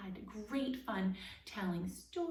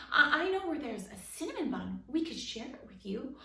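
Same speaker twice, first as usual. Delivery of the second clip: louder and higher, rushed and stumbling; quick, nervous offer; 4 semitones higher, 9 dB louder than usual. A narrator's reading. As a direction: blurt it out to save your skin. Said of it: "Quickly, Rip added".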